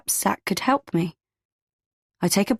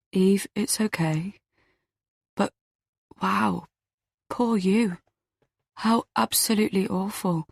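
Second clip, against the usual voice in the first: comforting; 2 semitones higher, 3 dB quieter than usual. A narrator's reading. Zach comforts the crying narrator.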